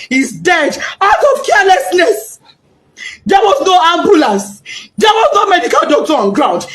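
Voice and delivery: mother angry at the school's neglect; anguished accusation. Real, not acted. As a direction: hurl the questions in grief.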